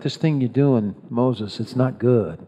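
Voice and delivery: tactful, hushed advice; gentle respectful correction. Acted. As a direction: break it to him kindly, as a father-in-law would. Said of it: "maybe he said it like that".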